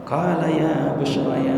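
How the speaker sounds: slow Quranic recitation of "Qala ya Bushra ya" with the long o in Bushra; reciting Quranic variant. Shown as a demonstration. Teacher reciting a variant reading, slow and soft. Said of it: "kalau ada orang baca".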